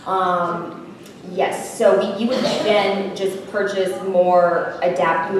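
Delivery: usual speaking voice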